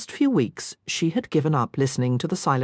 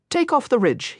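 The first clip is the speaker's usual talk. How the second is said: harsh command; 8 semitones higher than usual. A narrator's reading. A knife-wielding young robber demands the jewellery, in a mildly harsh order. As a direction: bark the demand at the women like a street robber. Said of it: "he said harshly".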